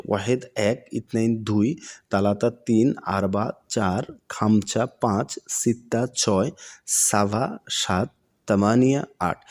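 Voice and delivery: each Arabic number said slowly, then its Bengali meaning; slow word-by-word drill. Shown as a demonstration. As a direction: spell out every number slowly for learners. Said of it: "এটা একটু শিখবেন সহজে".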